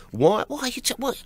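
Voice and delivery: high, stammering disbelief; baffled cop. Retold or imitated. Second cop questioning the comedian, baffled. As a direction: imitate a cop lost for words.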